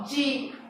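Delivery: "di" dito com som de DJ; som do D em dieta. Shown as a demonstration. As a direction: pronuncie "di" como "dji", isolado. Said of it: "a forma como a consoante D será pronunciada". ("di" com som de DJ, em português)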